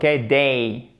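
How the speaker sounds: Day as a two-part vowel glide; diphthong. Shown as a demonstration. Teacher repeating for learners, diphthong in Day. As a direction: let Day slide from eh into ee.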